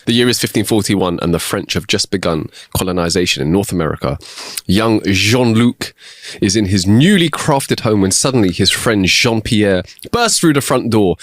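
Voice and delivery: a light, hammed-up French accent story; bad French accent. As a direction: tell the tale in a wobbly French accent.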